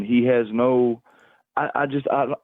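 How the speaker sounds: ordinary talk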